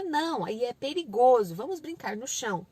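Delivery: slow, measured no with a reason; firmly steer a child to safety; patient parent redirecting; explaining parent. Shown as a demonstration. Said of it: "você fala".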